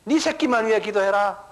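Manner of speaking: a hint of a tempting devil; mildly voiced devil whispering bad advice; devil's voice. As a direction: devil telling believers to pray only for their own. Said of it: "그런다고".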